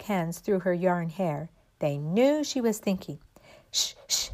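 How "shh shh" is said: voiceless shushing; hushing. A narrator's reading. Dollies to each other while Raggedy thinks, quiet hushing. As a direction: hush the others with two soft shushes. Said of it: "and quietly went over".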